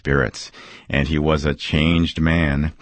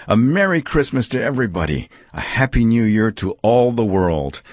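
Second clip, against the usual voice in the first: rising higher with giddy joy; giddy Scrooge; 4 semitones higher than usual. Acted. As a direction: build from light to merry shouts of joy. Giddy Scrooge's joyful list.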